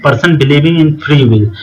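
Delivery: very slow, word by word; slow, careful dictation pace. Shown as a demonstration. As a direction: read it out for students to copy down. Dictating English definition slowly.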